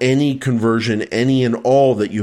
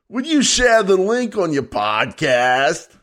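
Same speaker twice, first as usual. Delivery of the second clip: put-on Australian accent, high, sing-song, swooping pitch; 7 semitones higher than usual. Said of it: "I'll leave that to Jason".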